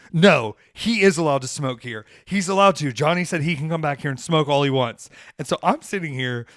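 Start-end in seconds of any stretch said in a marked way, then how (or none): 0.1-5.1 mock insistent. Group insisting he may smoke.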